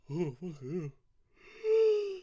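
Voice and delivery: a sudden yelped curse, high and loud; startled shriek; frustrated yell. Real, not acted. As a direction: cry it out in sharp annoyance. Sudden outburst on stream.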